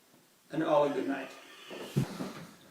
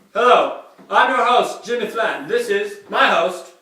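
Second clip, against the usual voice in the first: TV host voice; 4 semitones higher, 6 dB louder than usual. Acted. Hammy TV host intro.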